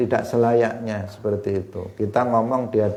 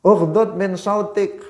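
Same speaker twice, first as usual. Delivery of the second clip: stern reprimand; 9 semitones higher, 4 dB louder than usual. Retold or imitated. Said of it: "Lirihkan suaramu".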